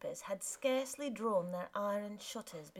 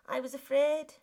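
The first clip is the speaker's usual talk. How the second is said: wife's pleading voice; 6 semitones higher, 9 dB louder than usual. Acted. Wife confesses to husband.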